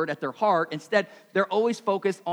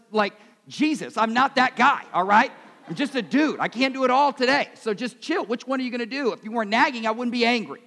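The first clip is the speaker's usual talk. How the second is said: louder and higher, defensive rant at his wife; mock angry rant; 6 semitones higher, 3 dB louder than usual. Husband snapping back at his wife, indignant. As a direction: fire back at her, indignant and fast. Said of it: "Decided to create drama in my home".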